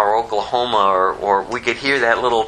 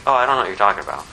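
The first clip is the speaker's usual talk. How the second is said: casual brush-off; much faster than usual. Retold or imitated. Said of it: "just denying him like".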